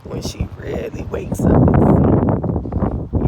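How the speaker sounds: speaking through tears; real crying. Real, not acted. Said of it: "that's why I'm crying".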